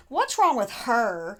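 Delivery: slow, scoffing question; scoffing boss. Retold or imitated. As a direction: scoff at the crying girl. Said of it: "kind of scoffed".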